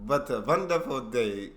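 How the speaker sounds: slow, shaky-handed attempt at German accent. Shown as a demonstration. Viewer copying the teacher, slow German accent attempt. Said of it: "No, I can't do it".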